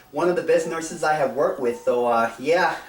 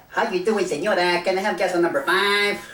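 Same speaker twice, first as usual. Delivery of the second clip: mock Mexican accent; 3 semitones higher than usual. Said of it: "not like".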